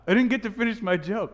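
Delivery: the line shouted high and loud; loud retold voice of God. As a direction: boom it out like a voice from heaven. God's voice repeated, louder.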